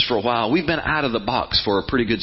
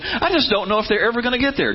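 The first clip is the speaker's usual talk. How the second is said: higher, fretting doubt; high fretful mock; mock worried God; 8 semitones higher than usual. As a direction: play the anxious God he isn't. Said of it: "God is not stressing, going".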